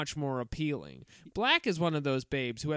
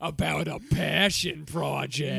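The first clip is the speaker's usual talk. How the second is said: Long Island grandmother voice; 4 dB louder than usual. Pretend. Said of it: "Long Island two packs a day grandmother voice".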